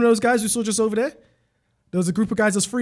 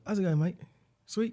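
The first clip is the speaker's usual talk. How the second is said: put-on mate banter, slightly Australian; Australian-sounding accent; 5 dB quieter than usual. Pretending to greet a friend called Third, Australian-sounding accent. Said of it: "Why does he sound Australian?".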